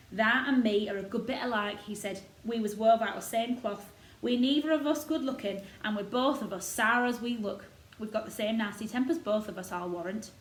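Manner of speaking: lightly voiced proud old gardener; a touch of Yorkshire, warming to the robin. Gardener boasting of the robin to Mary, lightly voiced old Yorkshireman.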